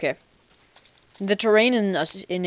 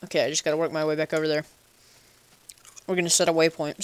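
chewing while talking. Real, not acted. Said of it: "Sorry, I'm chewing on a".

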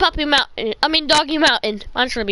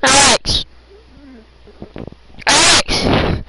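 calling out; 3 semitones lower, 5 dB louder, much slower than usual. Real, not acted. Calling unanswered friend.

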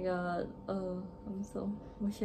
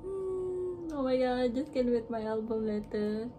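teary; 4 semitones higher, 3 dB louder than usual. Real, not acted. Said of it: "where am I crying?".

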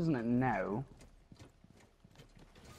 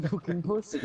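laughing insult; 6 semitones higher than usual. Pretend.

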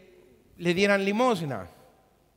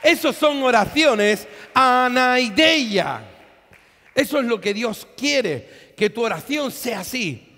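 fiery preaching; 3 semitones higher, 7 dB louder than usual. Acted. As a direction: rouse the congregation past opposition. Preaching at full force.

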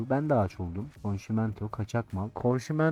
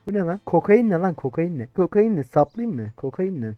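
angry interrogation; 4 semitones higher than usual. Pretend. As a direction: grill the smuggler hard. Interrogating smuggler about cocaine.

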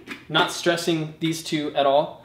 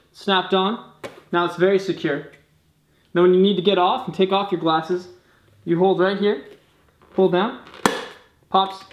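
muffled behind visor; speaking through face shield; 4 semitones higher, 4 dB louder than usual. Real, not acted. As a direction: helmet on, shield down. Seen 5: Helmet bubble shield covers his face until pulled open ~12s.

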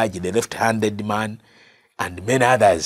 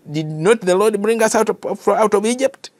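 raised question; 8 semitones higher than usual. Acted. Fathers' question voiced high.

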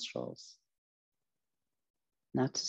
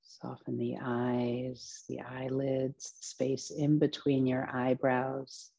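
guided meditation. Acted. Teacher relaxing listeners from feet upward, guided meditation voice. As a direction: ease each body part into rest, phrase by phrase.

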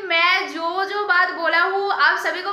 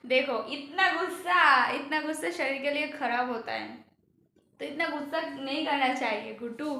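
soothing; 4 dB quieter than usual. Real, not acted. Soothing his angry wife.

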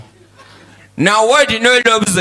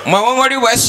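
put-on child reciting; 4 semitones higher than usual. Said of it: "Now I look the class".

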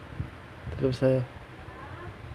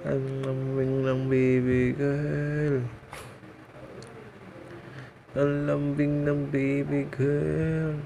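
put-on slow cooing baby talk; slower than usual. Owner coaxing the dog, slow cooing baby talk. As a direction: draw each word out slowly and tenderly to the dog.

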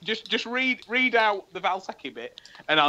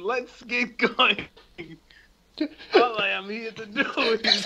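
strained, higher narrator read; straining voice; 3 semitones higher than usual. Acted. Narrator reading the script aloud, straining. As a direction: push the words out with effort, higher. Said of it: "why do I sound like I'm forcing out a shit".

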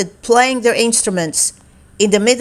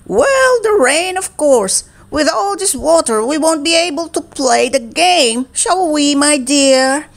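higher, chirpy umpire voice; 5 semitones higher than usual. Acted. Umpire explaining the rain to Fi, lightly voiced. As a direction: play the fussy umpire.

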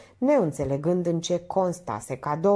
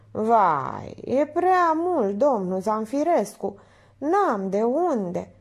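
dismayed woman; 5 semitones higher, much slower than usual. Acted. Minerva dismayed at the price.

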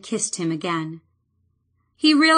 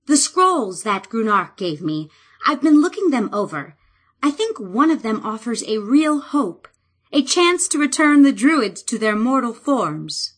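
brightening with new hope as she explains; more animated; 3 semitones higher than usual. Acted. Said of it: "Robin's voice grew more animated".

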